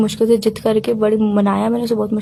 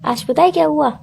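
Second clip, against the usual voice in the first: a little louder; 2 semitones higher than usual. Real, not acted. Girlfriend asked to speak up, a little louder. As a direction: speak up slightly, still restrained. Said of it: "थोड़ा जोर से नहीं बोल सकते".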